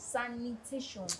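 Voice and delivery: "Sanitation" said slowly, each syllable clear, falling; slow clear spelling-out. Shown as a demonstration. Daughter repeats the correct word to him: slow and clear. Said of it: "It's not environmental station".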